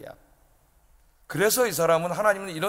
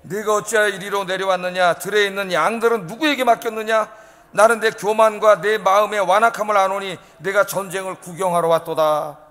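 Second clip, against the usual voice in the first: slightly louder unison scripture reading; congregation reading scripture; 4 dB louder than usual. Shown as a demonstration. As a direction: read the verse aloud together. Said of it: "한번 읽어보겠습니다". (성경 구절을 함께 소리 내어 읽기)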